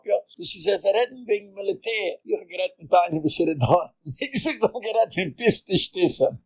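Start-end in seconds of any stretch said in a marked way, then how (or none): 4.0-6.5 amused, talking through a laugh. Real, not acted. Speaker retells own remark to listeners, laughing. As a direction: let a real chuckle break into the words.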